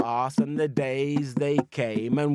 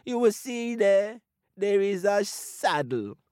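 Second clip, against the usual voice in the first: feeble scheming voice; 6 semitones higher than usual. Acted. Anansi still feigning weakness, scheming.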